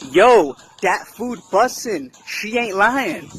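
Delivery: pirate accent remixed into street slang, slow; a pirate accent passed off as street talk; a slow, easy remixed pirate accent. Shown as a demonstration. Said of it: "let's do it a little more remixed, culture appropriate".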